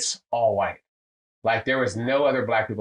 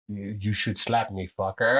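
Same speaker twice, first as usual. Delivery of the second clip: imitated German accent; 2 semitones lower than usual. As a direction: drag it out with a put-on German accent. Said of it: "With the accent".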